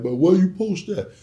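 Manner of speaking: high, loud puzzled voice; asking where it was posted. Retold or imitated. Someone in his inbox asking where he posted it, quizzical. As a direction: pitch it up, like a curious stranger. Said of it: "file like".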